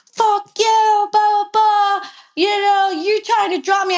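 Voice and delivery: high, mocking imitation of his rant; retold cursing. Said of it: "he's cursing me out".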